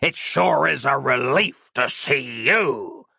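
slow, lightly voiced leering demon; drawn-out mock relief from a sly villain; a hint of a gloating demon; leering Randy. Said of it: "leering up at her".

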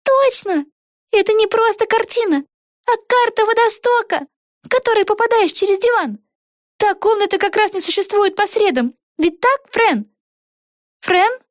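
put-on excited young witch thinking aloud; Vega's voice. A narrator's reading. Вега. (высокий голос юной ведьмы Веги)

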